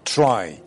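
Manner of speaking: ترای said with a split t-ra cluster; Persianized try; Persian try. Shown as a demonstration.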